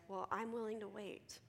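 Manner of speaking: mildly softened, caring tone. Acted. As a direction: offer patience with genuine concern. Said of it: "genuine care and concern says".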